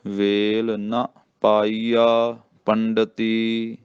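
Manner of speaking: slow recitation with ਨ cut short as "na"; short bare vowel. Shown as a demonstration. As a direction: draw out ਪਾਈਆ ਪੰਡਤੀ, keep ਨ brief. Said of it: "ਇਹਨੂੰ ਮੁਕਤਾ ਹੀ ਬੋਲਣਾ".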